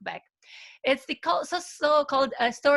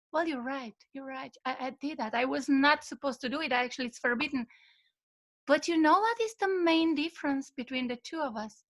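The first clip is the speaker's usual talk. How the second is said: softer, unhurried, gently conceding; calm and peaceful; 3 dB quieter than usual. Retold or imitated. Old master calmly answering his angry apprentice. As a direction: answer the anger with quiet calm. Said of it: "the old monk was relaxed and peaceful".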